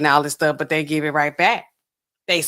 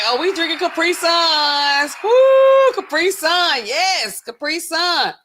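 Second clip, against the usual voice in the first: imitating the guy in the video; 10 semitones higher, 5 dB louder, much slower than usual. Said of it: "He like".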